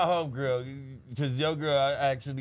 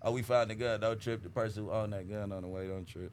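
low soft reassurance fading out; quiet calming tone, dropping away; calm reassuring; 5 semitones lower, 6 dB quieter than usual. Retold or imitated. Reassuring phone call acted.

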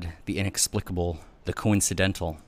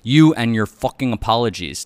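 loud, higher, scornful yell; angry yell; 4 semitones higher, 8 dB louder than usual. A narrator's reading. Wife rejects husband's apologies, yelling angrily. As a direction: keep yelling, throw the words at them. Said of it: "I yelled back".

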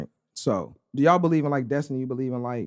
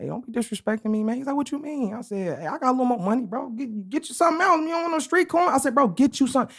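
retold insistence; 10 semitones higher than usual. Insists the man order more food.

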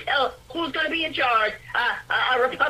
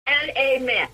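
rhythmic praising prayer; fervent prayer. Acted. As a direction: declare it with rising fervour.

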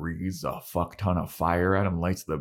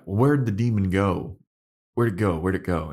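confused calling out; 2 semitones higher, 5 dB louder than usual. Retold or imitated. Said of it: "then they're all like".

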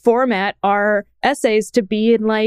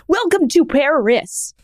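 higher, slow celebrity impression; Christopher Walken; 6 semitones higher, slower than usual. Co-host showing off an impression, put-on celebrity voice. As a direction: drag it out in a put-on famous actor's voice. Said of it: "it's my Christopher Walken".

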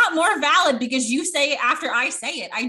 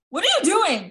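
puzzled husband; 9 semitones higher, 6 dB louder than usual. Retold or imitated. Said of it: "he was like".

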